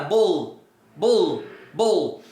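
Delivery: "bolo" cut on the L, last O barely released; stopped before final O. Shown as a demonstration. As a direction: say "bolo" but stop at the L. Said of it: "ao invés do O, você para". (bolo parando antes do O final)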